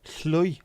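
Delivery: "Chloi" with a hissed Welsh double L; pronunciation attempt. Shown as a demonstration. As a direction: test "Chloi" aloud, high and isolated. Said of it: "How the freaking hell do you pronounce that?".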